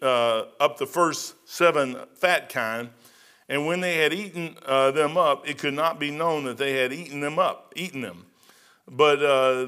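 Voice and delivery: put-on slow measured reading of the old text; scripture reading. Preacher reading Pharaoh's dream aloud, slow and measured. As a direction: read it out as Pharaoh's account.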